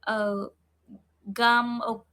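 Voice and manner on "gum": "gum" with hard G but the wrong vowel; "gum" as a questioned pronunciation. Shown as a demonstration. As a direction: offer "gum" as a mistaken reading of game. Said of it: "do you pronounce it like".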